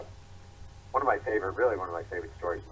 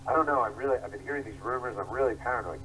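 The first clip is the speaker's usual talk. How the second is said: paranoid whine; 4 semitones higher than usual. Retold or imitated. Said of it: "always paranoid".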